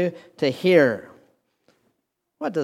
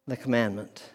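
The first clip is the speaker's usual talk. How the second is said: hushed repeat; 6 semitones lower, 8 dB quieter than usual. Shown as a demonstration. Hushed repeat after a long pause.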